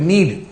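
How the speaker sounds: Need set firmly apart for emphasis; stress on NEED. Real, not acted. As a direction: underline the word Need with your voice. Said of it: "underline the word need".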